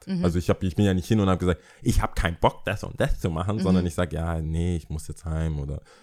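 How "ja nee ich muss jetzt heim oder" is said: mock-meek voice, lower, quieter and slower. Retelling how they used to excuse themselves instead of refusing: retelling own meek reply. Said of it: "was immer so kleinlaut".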